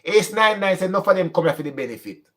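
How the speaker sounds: usual speaking voice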